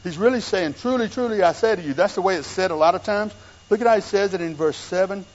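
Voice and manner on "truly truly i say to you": "Truly, truly" pitched high and insistent; solemn declaration with "Truly, truly" lifted high; emphatic. Retold or imitated. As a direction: press both words of "Truly, truly" from a high pitch. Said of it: "He's saying that's the emphatic tense".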